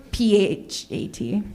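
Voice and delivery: P H A T spelled letter by letter, slowly. Shown as a demonstration. Comic spelling P H A T out for the crowd, slowly. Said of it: "spelling it out".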